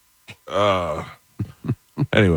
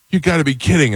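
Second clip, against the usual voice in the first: high, disbelieving "You gotta be kidding"; a frail kid's shocked disbelief; incredulous; 10 semitones higher, faster than usual. Retold or imitated. Frail Brent reacting to the fart, high and disbelieving. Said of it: "Brent looked at him and he goes".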